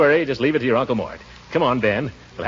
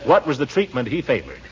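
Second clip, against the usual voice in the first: usual speaking voice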